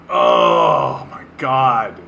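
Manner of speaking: slow exasperated cry; exasperated shout. Real, not acted. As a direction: stretch out the groan of disbelief. Exasperated outburst.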